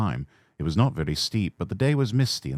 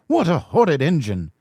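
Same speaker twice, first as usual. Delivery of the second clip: outraged; 9 semitones higher, 4 dB louder than usual. Acted. Coaches outraged.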